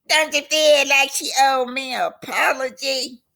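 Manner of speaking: high-pitched indignant question; demanding. Acted. Tisha demanding an apology from her friend, high and indignant. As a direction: press the point in a high voice.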